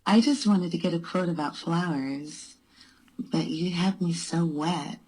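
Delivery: voice changer. Pretend. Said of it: "this is the speaker with a voice changer".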